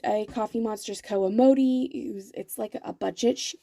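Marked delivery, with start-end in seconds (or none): 1.9-3.6 talking through hiccups; words broken by hiccups. Real, not acted. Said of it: "Sorry, I've got the hiccups".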